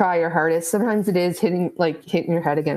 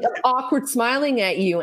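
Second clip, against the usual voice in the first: higher, awkwardly friendly voice; mock friendly; 5 semitones higher than usual. Masked teacher pretending to smile at students, mock friendly. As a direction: lift it into over-friendly cheer. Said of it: "like, friendly".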